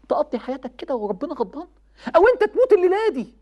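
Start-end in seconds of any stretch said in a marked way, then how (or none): 2.1-3.3 loud warning. Real, not acted. Preacher loudly warning young men about dying tonight. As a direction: cry it out higher and louder.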